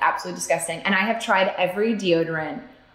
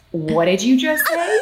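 slow, higher mock disbelief; shocked parent; 4 semitones higher, 3 dB louder than usual. Mother retells confronting her toddler, slow mild shock. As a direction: stretch it out as a stunned parent. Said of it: "our jaws were on the floor and I go".

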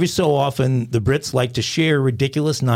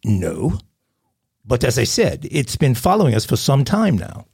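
put-on French-British caller accent. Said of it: "fifty fifty French and British".

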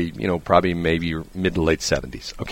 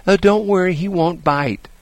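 mock-breezy dog owner, pitched much higher; careless dog owner; 11 semitones higher than usual. Imitating a dog owner calling to a walker, high and breezy. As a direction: toss it off like an owner who swears his dog is harmless. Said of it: "somebody goes".

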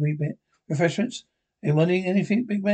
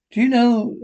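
suddenly higher and louder; raised voice; loud outburst; 6 semitones higher, 6 dB louder than usual. Acted. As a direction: blurt it out, raised. Excited outburst mid-conversation.

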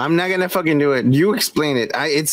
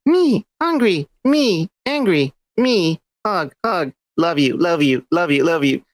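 mock gorilla. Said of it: "she would be like".

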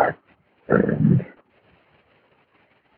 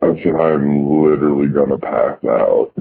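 a bit louder, repeated clearly. Shown as a demonstration. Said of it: "Say it again?".

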